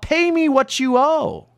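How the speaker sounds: a mild hammed-up shout of a cruel creditor; merciless demand. A narrator's reading. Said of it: "mercilessly yells out".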